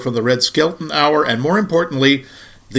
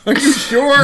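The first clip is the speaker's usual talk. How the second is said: dismayed outburst; 12 semitones higher than usual. Real, not acted. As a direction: cry out, caught in a mistake. Realizes wrong episode number.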